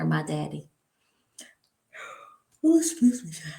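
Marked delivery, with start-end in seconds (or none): 2.6-3.5 startled aside. Real, not acted. Sudden interruption.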